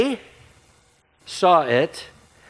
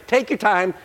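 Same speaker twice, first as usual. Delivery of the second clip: coaxing gently; 7 semitones higher than usual. Retold or imitated. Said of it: "That's what I would say".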